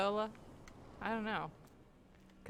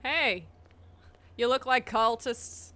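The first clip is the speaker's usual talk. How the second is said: calling out; 5 dB louder, slower than usual. Real, not acted. Calling out to game characters.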